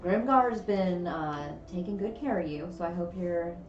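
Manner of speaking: a light, slipped-in Southern drawl; slipped Southern accent. Acted. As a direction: let the Southern accent creep back in. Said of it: "I'm doing it again".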